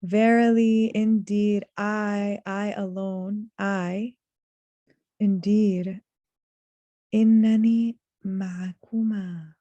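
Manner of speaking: Verily loud, then each word set apart; deliberate weight on Verily, indeed, I alone; strong emphasis. Shown as a demonstration. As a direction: hit Verily and indeed, stretch innani ma'akuma. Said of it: "is a very strong emphasis".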